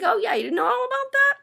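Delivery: high, fast, mock-casual voice; sarcastic faux innocence. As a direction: play dumb, sweetly. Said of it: "I'm like".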